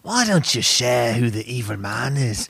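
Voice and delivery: mild grave movie-star voice; a hint of Liam Neeson asking; Liam Neeson impression. Host asks co-host to reveal guest, lightly voicing Liam Neeson. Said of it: "thinking Liam Neeson".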